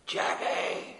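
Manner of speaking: imitated call across a shop. Man hailing a friend across Marks and Spencer's, calling out. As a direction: call a name as if over the crowd. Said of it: "hear this voice shout across".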